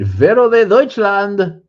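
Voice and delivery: high, loud, slow mock announcer call; booming announcer. Streamer announcing a viewer's name, booming mock call. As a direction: belt the name out like a ring announcer.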